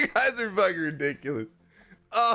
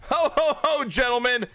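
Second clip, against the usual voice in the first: higher, jolly Santa laugh; hint of Santa; 4 semitones higher than usual. Host opens a holiday ad as a lightly voiced Santa. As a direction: boom it out like Santa.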